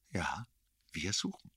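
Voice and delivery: soft whispered confirmation; half-voiced whisper. A narrator's reading. Erik answers the narrator about the search, whispering. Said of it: "Mit seiner halben Stimme".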